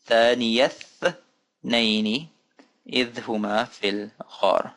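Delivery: careful reading, words joined up. Shown as a demonstration. Teacher repeating the example for learners, careful and flowing. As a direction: recite it in two measured phrases.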